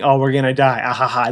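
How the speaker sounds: deadpan with a token laugh; no feeling at all, even on the laugh; mock emotionless quote. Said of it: "They show no emotion".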